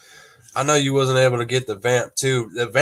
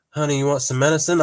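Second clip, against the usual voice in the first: wife offering; 4 semitones higher, faster than usual. Retold or imitated. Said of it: "She'll be like".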